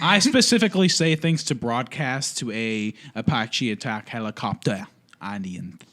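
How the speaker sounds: put-on French accent, deliberate delivery. Co-host answering the gender question, French accent. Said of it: "like, a French accent".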